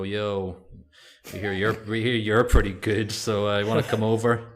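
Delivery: put-on loud, hammy Arabic accent. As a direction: play a booming Arabic sheikh. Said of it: "I love your Arabic accent".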